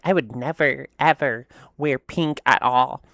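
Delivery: imitating a stubborn former self; adamant refusal. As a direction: dig in, drawing out each word. Quoting former self refusing pink.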